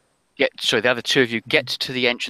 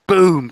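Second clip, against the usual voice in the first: imitated gunshot boom; 8 semitones higher, 7 dB louder than usual. Game master imitates gunshot.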